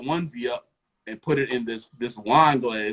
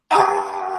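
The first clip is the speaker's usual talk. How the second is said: imitated scream; 6 semitones lower, 7 dB louder than usual. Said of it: "All you hear is".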